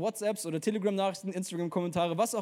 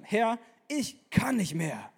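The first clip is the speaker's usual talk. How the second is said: slow, drawn-out exhausted plea; groaning despair; 2 semitones higher, much slower than usual. A narrator's reading. Elia begs God under the bush, slow and groaning. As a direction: groan it out, spent. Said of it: "stöhnte er".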